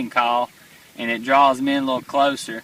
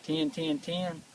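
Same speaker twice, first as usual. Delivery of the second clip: teal call sound; 9 dB quieter, slower than usual. Shown as a demonstration. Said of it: "They go like".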